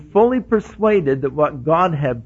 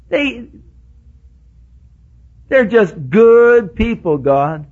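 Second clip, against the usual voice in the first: insisting to God; 8 semitones higher, 4 dB louder than usual. Retold or imitated. Arguing earnestly with God.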